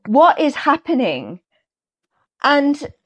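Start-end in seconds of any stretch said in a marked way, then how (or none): 0.1-1.4 slow, higher and louder amazed question; stunned disbelief. Retold or imitated. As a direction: replay the shock of spotting him. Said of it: "I was like".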